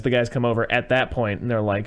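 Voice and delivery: usual speaking voice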